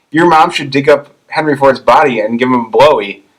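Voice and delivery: half-hearted impression of a hockey trash-talker; Shoresy. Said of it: "not even gonna try to impersonate the voice".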